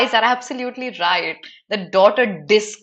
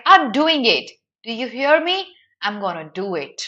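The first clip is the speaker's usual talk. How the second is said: urgent. Retold or imitated. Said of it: "in an increasing urgency".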